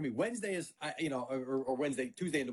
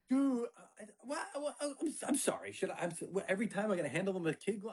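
higher, stammering wife voice; flustered wife; 5 semitones higher than usual. Retold or imitated. Wife sputtering at the husband over the crying kid, flustered. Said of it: "my wife is on the other side".

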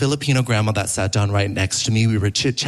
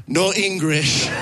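slow, raised feigned broken English; 5 semitones higher, slower than usual. Retold or imitated. Comedian repeating the grandma's dodge, slow and raised. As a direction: play dumb in mock broken English. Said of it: "here is how that interaction went".

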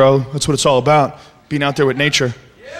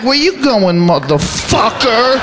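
menacing to an ant; slower than usual. Acted. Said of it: "you're like".

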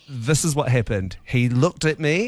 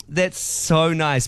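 slow, polite "That's so nice."; 4 semitones higher, slower than usual. Retold or imitated. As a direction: say it courteously, slowly. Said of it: "I very politely was like".

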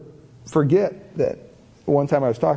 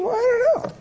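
much higher mock wife voice; imitating his wife. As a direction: lightly play the puzzled wife. Wife answering his question.

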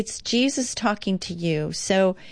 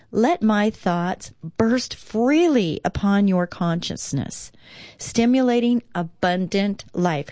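devotional reading. Acted. Reads Jesus' words devotionally.

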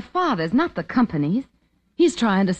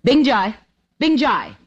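calling out; 5 semitones higher than usual. Acted. Calling the guard to come.

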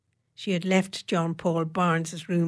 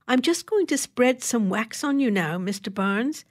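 advising; 5 semitones higher than usual. Acted. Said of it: "she advised".

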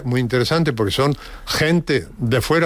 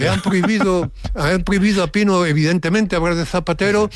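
higher-pitched retold neighbor, tongue in cheek; ironic mock outrage; 5 semitones higher, faster than usual. Neighbor phoning about a banned radio topic, ironic. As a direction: play the neighbor's ironic complaint. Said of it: "irónicamente, me decía el vecino".

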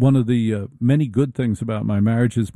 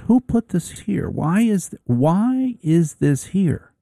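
high, slow, accusing wife voice; nagging wife; 7 semitones higher, slower than usual. Retold or imitated. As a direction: play the wife spotting a mess. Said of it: "She goes".

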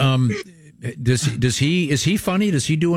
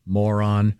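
slow mock address; 4 semitones lower, much slower than usual. Shown as a demonstration. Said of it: "we could come back and go".

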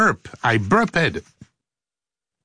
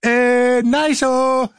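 playful nice-o; 9 semitones higher, much slower than usual. Real, not acted. Playful praise.

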